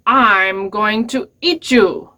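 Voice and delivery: slow, drawn-out mock threat; a mildly menacing troll, savoring each word; lightly voiced troll. Troll threatens the little goat.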